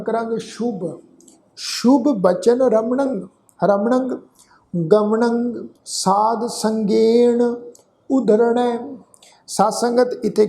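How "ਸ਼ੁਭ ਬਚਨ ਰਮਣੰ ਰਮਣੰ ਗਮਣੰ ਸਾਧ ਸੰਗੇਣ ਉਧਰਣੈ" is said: slow, drawn-out gurbani chant; slow recitation. Shown as a demonstration. Teacher reciting the whole shlok for the sangat, slow chant. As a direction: lay out every syllable of the shlok slowly. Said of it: "ਧਿਆਨ ਰੱਖੋ ਜੀ".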